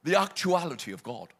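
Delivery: the actuality of God in a posh British accent; actuality of God, crisp British English. Shown as a demonstration. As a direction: say it like an Oxford don. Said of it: "shall I say it in a nice British accent".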